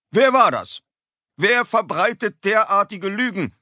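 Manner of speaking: high, loud furious demand; outraged teacher. A narrator's reading. Teacher demanding who drew the dog, furious and loud.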